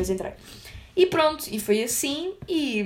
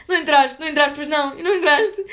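sympathetic mother; 4 semitones higher, 7 dB louder than usual. Retold or imitated. Mother assumes she failed.

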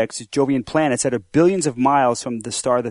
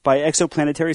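laughing quote; 5 semitones higher, 5 dB louder than usual. Retold or imitated. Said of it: "he said".

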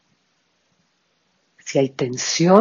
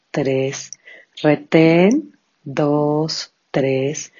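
each cue called out rising, counts fading; slow breath counting; much slower than usual. Shown as a demonstration. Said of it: "Vamos a comenzar entonces con nuestro pranayama".

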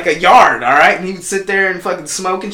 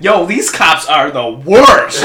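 laughing quote; 3 semitones lower, 4 dB louder, much slower than usual. Retold or imitated. Retold reaction to a show.

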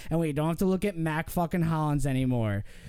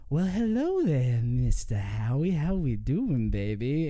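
flirty booty call; 5 semitones lower than usual. Retold or imitated. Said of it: "and he goes".

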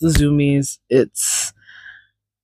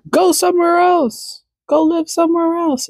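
mock stern; 13 semitones higher than usual. Mock shooing the cat.

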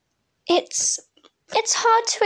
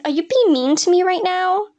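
confused question; 4 semitones higher, 3 dB louder, faster than usual. Retold or imitated. Confused by sarcasm.

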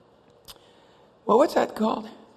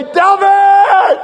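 high, loud, drawn-out yell; acted exhilarated scream; thrilled shouting; 8 dB louder, much slower than usual. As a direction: holler back over the roller coaster. Brother yells back on the coaster.

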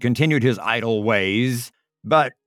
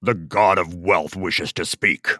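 stern giant; 4 semitones lower than usual. Acted. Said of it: "roared the giant".

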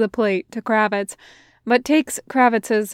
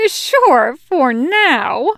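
higher, louder teasing soldier voice; 5 semitones higher, 6 dB louder, much slower than usual. A narrator's reading. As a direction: tease him, pitched up.

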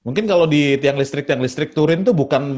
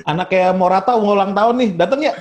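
higher-pitched playful request; mock party invitation; 5 semitones higher than usual. Parent inviting a footballer to a child's birthday, mock-pleading. Mimics someone booking player for party.

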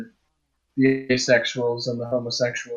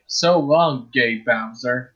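Chris Pratt Mario; slower than usual. Retold or imitated. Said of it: "Chris Pratt Mario would definitely say".

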